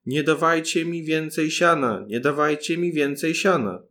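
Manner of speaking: loud, fearful shout from inside; frightened cry. A narrator's reading. Paluszek trapped in the cow's stomach cries out, frightened shout. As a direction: cry out in alarm. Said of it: "Zawołał więc w trwodze".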